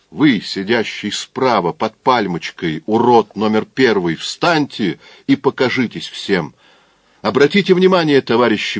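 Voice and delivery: booming circus ringmaster. Acted. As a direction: announce like a drunken ringmaster. Drunk mock-announces the crowd.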